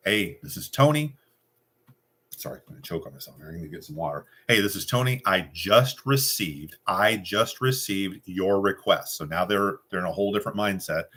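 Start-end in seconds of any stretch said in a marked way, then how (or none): 0.1-1.2 confident, higher pitched greeting; with authority. Shown as a demonstration. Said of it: "so with authority, with confidence". 4.5-9.2 confident. Shown as a demonstration. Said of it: "so with authority, with confidence".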